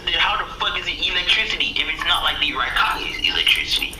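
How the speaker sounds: baffled. Acted. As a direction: argue it in mock confusion. Naruto acted, baffled objection.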